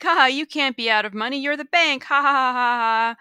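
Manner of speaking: high, forced joking with fake laughter; trying to be funny. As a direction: imitate someone straining at a joke, ending in "ha ha ha". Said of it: "be funny, like".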